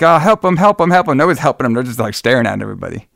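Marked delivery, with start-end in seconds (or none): 0.0-1.2 higher, pleading "help him" over and over; hammed-up frantic plea; imitating the girl begging them to help John; mock panic. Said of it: "She's like".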